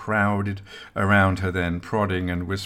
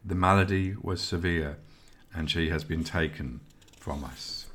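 solemn intoning; 2 semitones lower, 3 dB quieter than usual. A narrator's reading. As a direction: intone the death gravely, letting it fade. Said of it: "intoned the eldest of the three".

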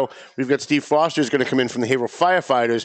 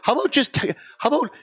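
exasperated; 2 semitones higher than usual. Retold or imitated. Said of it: "I'm like".

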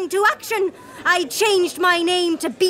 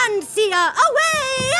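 triumphant exit; 10 semitones higher than usual. Acted. Villain exits triumphantly.

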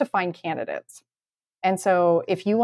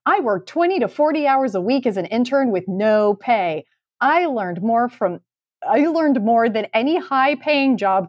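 reading a post aloud; 3 semitones higher than usual. Acted.

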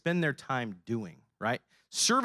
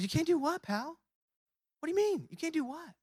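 much higher, incredulous question; baffled dad. Retold or imitated. A father asks his son why he can't carry the box, much higher and incredulous. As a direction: play up the disbelief.

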